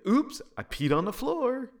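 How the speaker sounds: put-on high loud giggly child's voice; silly oops. A narrator's reading. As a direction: play up the joke like a little kid. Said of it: "I have to say".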